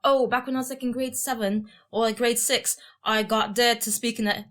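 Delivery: lightly imitated English accent; a touch of mock UK accent. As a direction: retell it in her stuck English accent. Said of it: "in her whole accent".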